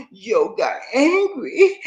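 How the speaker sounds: slow, hammed-up fake sob; drawn-out pretend weeping over the lost check; mock crying. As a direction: whimper it like a mock crybaby. Mocking Joe's hurt feelings.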